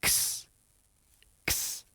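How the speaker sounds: "ks" as a hushed K running into a hiss; voiceless X sound. Shown as a demonstration. Teacher shows learners the X sound, voiceless "ks". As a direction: say "ks" with no voice at all. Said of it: "There's the voiceless way".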